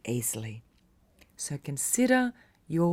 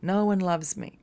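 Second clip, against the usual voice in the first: mock victim lament; 4 semitones higher than usual. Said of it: "victim mentality where we say".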